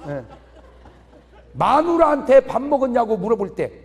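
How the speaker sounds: ordinary talk, nothing marked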